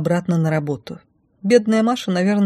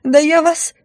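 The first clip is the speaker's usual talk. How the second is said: high, furious splutter; hiss; 10 semitones higher, 4 dB louder, slower than usual. Acted. Blonde rival sputters threats at the heroine, mock furious. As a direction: choke on rage. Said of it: "зашипела девица".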